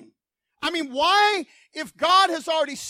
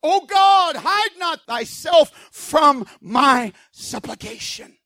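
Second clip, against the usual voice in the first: pleading prayer. Acted. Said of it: "doesn't seem like maybe God hears him".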